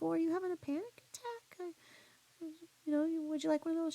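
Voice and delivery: high, quick, mock-concerned questioning; concerned offer. Bystander checking on a crying lady at the concert, concerned. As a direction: retell a hurried, high-pitched offer of help.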